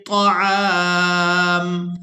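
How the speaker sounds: طعام with a drawn ain and a silent mim; stop on taam. Shown as a demonstration. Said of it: "میم کو ساکن کر دیں گے".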